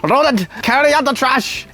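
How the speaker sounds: high, lordly master giving orders; playful high posh accent; posh servant-master accent. Pretend. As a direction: put on a grand accent to command the pet. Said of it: "I'll have a different accent then".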